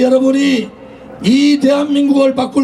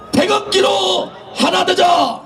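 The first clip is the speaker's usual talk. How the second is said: rallying shout; 3 semitones higher than usual. Real, not acted. Leader leads rally slogan.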